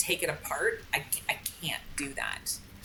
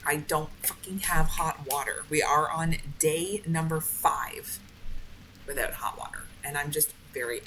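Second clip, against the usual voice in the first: slow, fed-up anger. Real, not acted. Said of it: "I'm just angry".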